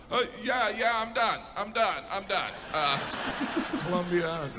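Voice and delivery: high, fumbling, making names up on the spot; flustered mapmaker. Acted. Mapmaker bluffing place names to his boss, flustered. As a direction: stall and bluff through it. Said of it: "The boss is like".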